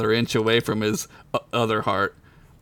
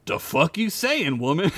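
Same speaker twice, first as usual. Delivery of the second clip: what are you saying, woman; incredulous; 5 semitones higher than usual. A narrator's reading. Sid's look to Ugla, mock disbelief. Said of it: "shot her a look as if to say".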